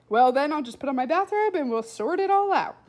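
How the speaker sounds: put-on loud, pompous boy philosophising; a know-it-all lecturing aloud; loud rambling boy. Blind boy musing to Flora, loud and grand.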